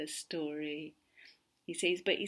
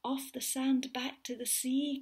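urgent, higher little snail voice; urgent cry; 5 semitones higher than usual. Acted. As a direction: hurry the whale back to the sea. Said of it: "cried the snail".

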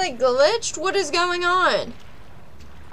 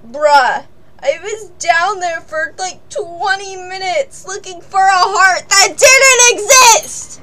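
exasperated rant; 2 semitones higher, 6 dB louder than usual. Real, not acted. Ranting about twenty lost minutes.

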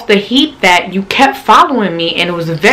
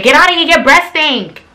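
mock brush-off; 7 semitones higher than usual. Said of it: "nigga try to talk to me like".

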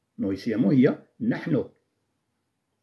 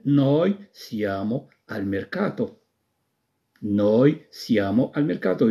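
slow, clear Italian sentence; slow model sentence; much slower than usual. Shown as a demonstration. Teacher gives the finished sentence slowly to students. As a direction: say the full answer slowly for copying. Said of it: "إذن أكتب ميركاتو".

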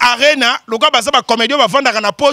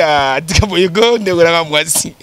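Manike's voice; 9 semitones lower than usual. Retold or imitated. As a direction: drop low and drag it out as Manike. Voicing Manike's reply. (voix de Manike imitée, plus grave et lente)

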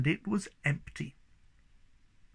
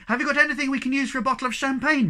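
excited; 11 semitones higher, 6 dB louder, much faster than usual. Acted. Eager fast question.

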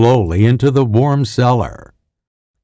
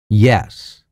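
a thin, far-off voice coming through a phone speaker; faint over the speaker. A narrator's reading. Scott's voice reaching Hendricks over the phone speaker, thin and distant. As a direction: answer as if from the far end of a weak line. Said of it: "came faintly over the speaker, almost inaudible".

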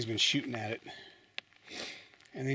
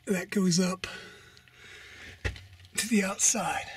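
excited discovery; 2 semitones higher than usual. Real, not acted. Discovering a shaft above him.

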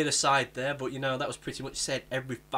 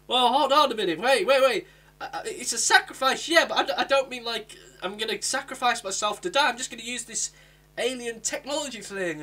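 a hint of a flustered Doctor; 7 semitones higher, 4 dB louder than usual. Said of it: "she's there like".

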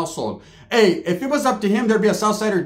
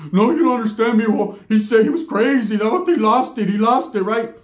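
pitched-up aunt voice, lightly acted; aunt pleading that her son lost it; mock insistent aunt; 4 semitones higher than usual. Aunt insisting to nephew, lightly voiced higher.

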